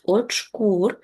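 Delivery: очкур with the stress on -кур; stress on the last syllable. Shown as a demonstration. Teacher shows pupils the stress in очкур, stressed on the end. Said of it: "зверніть увагу на наголос".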